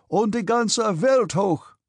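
high, loud, drawn-out German cheer; jubilant cry. A narrator's reading. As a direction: cry it out slowly like a toast to the crowd.

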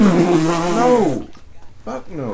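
high, drawn-out mock denial; retold emphatic refusal. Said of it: "And I was like".

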